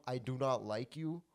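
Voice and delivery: acted calm honesty, kept quiet; nice calm. Telling someone you dislike them, acted calm. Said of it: "A, a nice, calm".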